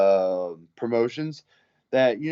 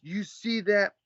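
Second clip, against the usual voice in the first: higher, cocky mock voice; imitated boaster; 9 semitones higher than usual. Drunk patron showing bouncer his ear, mock-boastful. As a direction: show off like a wannabe tough guy.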